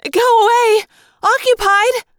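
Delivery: loud, high shout through a door. Acted. Rachel shouts at someone trying to open the bathroom door. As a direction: drive them off with a yell.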